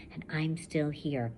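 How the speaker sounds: steady first-person reading to a class; story narration. A narrator's reading. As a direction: read it like a survivor telling her own story. Teacher reads novel aloud.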